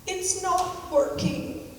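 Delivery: high, slow, whiny little complaint; imitating a stepson's plaintive wail; plaintive sad voice. Stepson stuck in the kitchen, complaining to stepmother, plaintive and sad. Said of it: "this very plaintive, sad voice".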